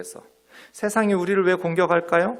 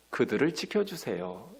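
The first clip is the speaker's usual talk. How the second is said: gentle plea, lighter at the end; quoted prayer; 3 semitones lower, 8 dB quieter than usual. Retold or imitated. Preacher voicing Jesus' prayer for his disciples, gently pleading. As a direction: ask softly for protection. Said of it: "지켜주세요라고 기도하는".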